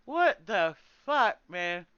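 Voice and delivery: drawn-out exasperated curse. Real, not acted.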